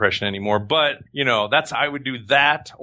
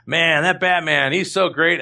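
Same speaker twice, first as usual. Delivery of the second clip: admiring fan; 6 semitones higher, slower than usual. Acted. Voices an admiring fan to Bruce Wayne.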